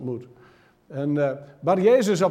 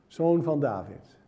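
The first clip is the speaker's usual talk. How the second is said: solemn slow title; 3 semitones lower, slower than usual. Shown as a demonstration. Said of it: "Dat is een geloofsbelijdenis".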